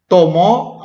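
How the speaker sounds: "tomó" rising onto the accented final O; stress on final syllable. Shown as a demonstration. Teacher pointing out written accents, stress on the O of "tomó". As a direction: land on the last O of "tomó". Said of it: "acento a la O".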